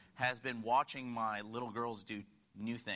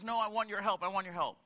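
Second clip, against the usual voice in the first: put-on high, louder childlike insistence; whiny little girl; 9 semitones higher, 6 dB louder, faster than usual. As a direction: insist like a child refusing to let go. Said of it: "And she goes".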